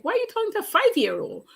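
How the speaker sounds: high, fast disbelieving self-talk; scolding herself in her head, pitched high and quick; incredulous inner voice. Retold or imitated. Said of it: "in her head, she's like".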